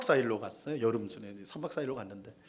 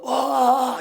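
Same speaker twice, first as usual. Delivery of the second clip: lost voice; 9 semitones higher, 7 dB louder than usual. Retold or imitated. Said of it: "목이 완전히 간 거예요".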